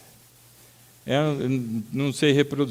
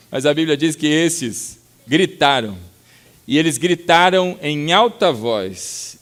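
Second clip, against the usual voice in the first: ordinary talk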